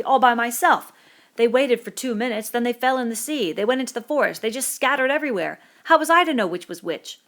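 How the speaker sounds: put-on a wronged boy pleading his case; Piggy indignant. Piggy defending himself to Ralph, indignant.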